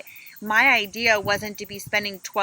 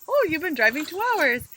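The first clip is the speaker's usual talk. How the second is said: put-on GPS accent; 7 semitones higher than usual. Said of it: "in her little accent".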